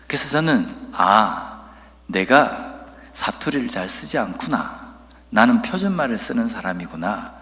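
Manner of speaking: ordinary talk, nothing marked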